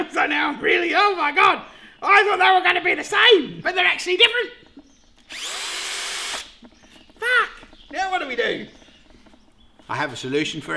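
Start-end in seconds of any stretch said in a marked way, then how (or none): 0.1-8.7 rising panic, high and loud; freaking out higher and louder; panicked. Real, not acted. Panic over mismatched drills.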